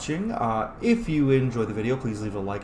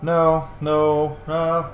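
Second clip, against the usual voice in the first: louder urgent denial; 3 semitones higher, 5 dB louder, much slower than usual. Real, not acted. Gamer protesting the plot turn, urgent. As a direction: stop it, no. Reacting to game twist.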